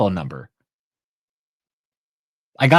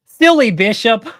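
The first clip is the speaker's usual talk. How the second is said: higher, louder, slow sing-song taunt; stronger mockery; 11 semitones higher, 7 dB louder, slower than usual. Real, not acted. Repeating the taunt to listeners, higher and slower mocking. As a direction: stretch it out, rubbing it in. Mocking the money-demanding bishop.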